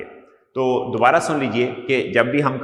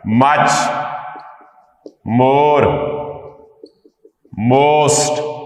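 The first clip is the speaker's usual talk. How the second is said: dictating; 3 semitones higher, 6 dB louder, much slower than usual. Acted. Teacher dictating while writing.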